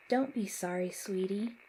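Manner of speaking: put-on gentle, tender Southern accent; warm Southern accent. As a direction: soothe him in a Southern accent. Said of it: "Mom said in her warm Southern accent".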